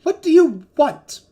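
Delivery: yelling. Acted. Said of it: "you hear him yelling".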